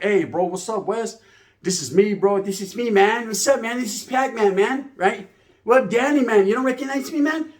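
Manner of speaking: high, eager voice as the homeboy calling Wes; homeboy on the phone. Retold or imitated. Homeboy greeting Wes on the phone, high and eager. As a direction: pitch it up like an old friend checking in. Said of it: "He was like".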